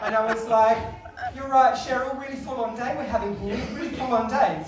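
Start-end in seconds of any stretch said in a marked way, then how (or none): 1.3-4.6 attempted London greeting sliding into Australian accent; slipping into Australian. Customer chatting up cashier, accent slipping into Australian. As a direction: let the Australian accent creep back in. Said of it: "Slipped into the Australian stuff again".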